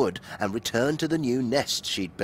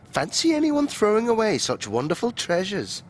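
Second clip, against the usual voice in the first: exclaiming; 9 semitones higher than usual. A narrator's reading. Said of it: "exclaimed Missus Mouse".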